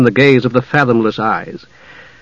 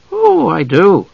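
airy boast; 6 semitones higher, slower than usual. A narrator's reading. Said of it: "said, lounging among the cushions".

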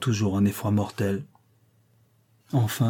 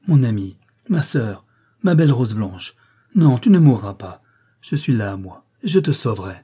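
urgent, louder plea to a friend; crying out; 4 dB louder than usual. Acted. Indian girl pleads over her fainting friend, crying out. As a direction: call her back, swelling to a loud no. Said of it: "s'écria".

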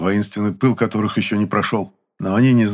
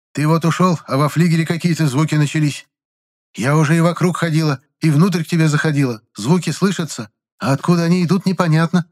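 put-on high worried old woman's voice; old landlady's voice; 7 semitones higher than usual. A narrator's reading. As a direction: ask like a fretful old landlady. Landlady complains about noises. (взволнованная старушка, голос выше)

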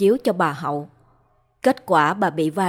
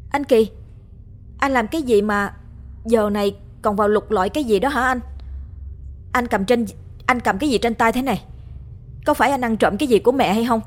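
raised, fast accusing voice; crying out; 4 semitones higher, faster than usual. Acted. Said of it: "Cô Thủy kêu lên".

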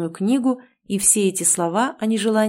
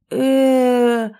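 a slow drawn-out stunned "э"; stunned hum; 5 semitones higher, 5 dB louder than usual. A narrator's reading. Heroine stunned by the old man's words, slow hum. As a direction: let out a slow bewildered hum. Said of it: "промычала я".

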